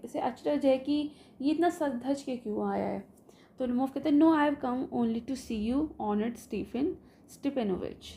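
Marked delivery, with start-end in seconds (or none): 4.2-8.1 slow, careful reading of a polite suitor; measured, deliberate recital of a nervous guest; play reading. Acted. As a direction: read the line slowly, like reciting a play. Reads Lomov's lines in English.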